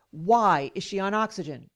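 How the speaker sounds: mildly impatient demand with WHY hit hard; imitated snapping. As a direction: press the question like an irritated doctor. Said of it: "he snapped".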